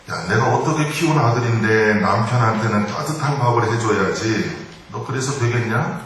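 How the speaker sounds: mildly acted scolding from a mother-in-law; nagging mother-in-law. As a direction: nag your daughter-in-law, lightly acted. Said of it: "조금 좀 잔소리를 하셨어요". (살짝 잔소리하는 시어머니 말투)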